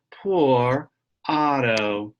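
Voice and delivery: slow sympathetic sigh of a refrain; pitying. Acted. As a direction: draw it out with pity. Story refrain read aloud.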